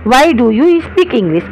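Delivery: very slow, word-by-word English sentence; slow dictation. Shown as a demonstration. Teacher to class, dictating the question word by word, very slow. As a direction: spell it out slowly for students. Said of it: "teacher dictating sentence".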